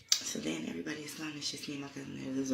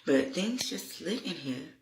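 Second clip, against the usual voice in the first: frantic report; 4 semitones higher, 3 dB louder than usual. Retold or imitated. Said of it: "I said".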